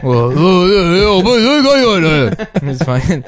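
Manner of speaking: high, slow fake Chinese accent; hammed-up fake Chinese accent. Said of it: "Your fake Chinese is so on point".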